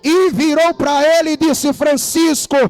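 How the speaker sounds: preacher building to a drawn-out, ringing climax; pregação a plena força. Real, not acted. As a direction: proclaim it to the whole church, stretching key words. (pregação inflamada, com palavras alongadas)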